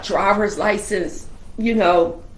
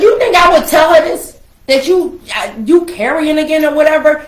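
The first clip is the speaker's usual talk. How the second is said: mock indignant; 7 semitones higher, 6 dB louder than usual. Retorting to brother, laughing.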